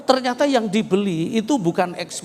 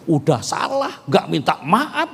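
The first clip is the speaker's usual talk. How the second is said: egotistic reproach. Retold or imitated. Proud husband blaming his wife instead of apologising, self-righteous. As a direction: demand she apologise. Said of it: "saya ego ngomong begini".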